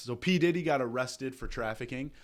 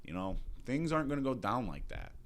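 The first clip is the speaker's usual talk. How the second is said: cool hero voice; 5 dB quieter than usual. Retold or imitated. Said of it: "he's like".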